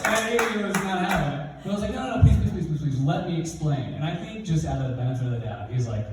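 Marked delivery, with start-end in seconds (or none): 1.9-3.9 mock pleading. Boy pleading with an angry principal, imploringly. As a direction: imitate a kid begging to be heard.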